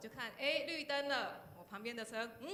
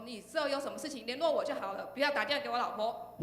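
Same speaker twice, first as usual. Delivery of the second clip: cool husband; 2 semitones higher, 7 dB louder than usual. Retold or imitated. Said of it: "很帅气的讲说".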